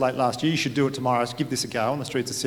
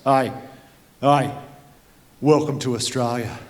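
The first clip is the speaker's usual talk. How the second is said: proud larrikin; slower than usual. Retold or imitated. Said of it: "turns around to us and goes".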